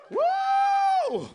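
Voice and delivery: high shrieking cheer; a loud, high party whoop; woo. Real, not acted. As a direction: whoop it up for Texas. Cheering Texans in crowd.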